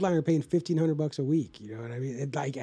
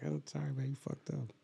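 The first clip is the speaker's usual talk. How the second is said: offhand sympathy; 11 dB quieter than usual. Retold or imitated. Retells own low-key reply to friend.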